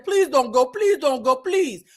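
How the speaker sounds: mock begging, climbing in pitch; desperate pleading. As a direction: imitate someone frantically pleading. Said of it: "she was desperate".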